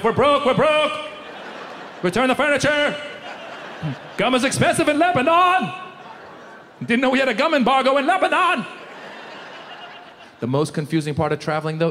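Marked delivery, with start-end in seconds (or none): 0.0-8.7 frantically telling the wife the money's gone; mock panic. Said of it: "I call my wife".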